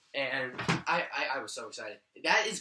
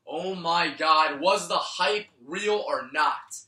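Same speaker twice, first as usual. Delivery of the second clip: excited; 7 dB louder, slower than usual. Real, not acted. Building to hat trick.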